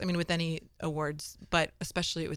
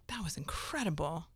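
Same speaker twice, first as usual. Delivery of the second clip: whispered; 6 dB quieter than usual. Retold or imitated. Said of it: "I wasn't like".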